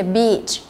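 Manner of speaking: "beach" with a long, held ee; long ee vowel. Shown as a demonstration. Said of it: "cũng là âm y dài".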